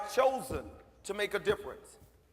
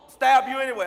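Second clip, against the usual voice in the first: put-on 1 defiant kid yell; 3 semitones higher, 11 dB louder than usual.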